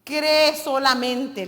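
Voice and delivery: "Cree" stretched out and falling, whole phrase slow; slow emphasis. Shown as a demonstration. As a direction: dwell on "Cree solamente" as the key words. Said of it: "dice esta versión".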